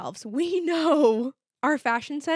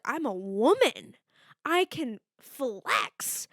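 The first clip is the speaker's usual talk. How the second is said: mock swagger; much slower than usual. Imagined confident entrance.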